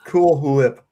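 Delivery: "Cool Whip" with a blown h, hoo-whip; Stewie Griffin. Acted. Friend playing along with Stewie Griffin joke, exaggerated hwip. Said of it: "You're Stewie Griffining me".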